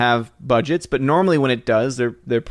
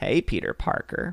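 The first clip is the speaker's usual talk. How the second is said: breathy, airy, whispered put-on voice; 9 dB quieter than usual. Greeting Peter Parker in a put-on voice: Brie Larson impression. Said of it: "That's my Brie Larson".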